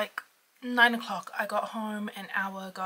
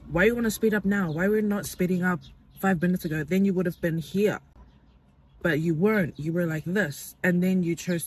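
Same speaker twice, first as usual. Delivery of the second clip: loud scolding questions; angry rant; 6 dB louder than usual. Retold or imitated. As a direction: tell the driver off loudly. Ranting at other driver.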